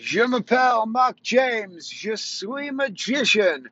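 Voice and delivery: high, slow, put-on French accent; hammed-up French magician. Shown as a demonstration. Magician greeting his audience, in a hammed-up high French accent. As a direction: greet them like a showy French magician, stretching every word. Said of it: "I did another show in French today".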